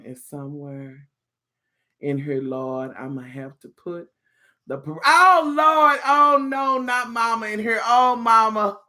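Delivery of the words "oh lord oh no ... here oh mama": loud, drawn-out lament; mock dismay. Reacting to mom being in here, mock dismay. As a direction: wail it a little, playing up the dread.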